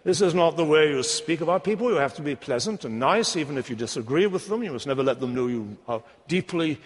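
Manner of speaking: a light mock English accent, prim and disapproving; lightly hammed-up English accent. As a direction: scold gently like a polite Englishman. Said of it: "I would put on an English accent".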